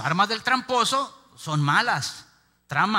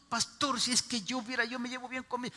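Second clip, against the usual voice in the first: imitating a congregant; 7 semitones higher, 5 dB quieter than usual. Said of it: "Eso tan chiquitito".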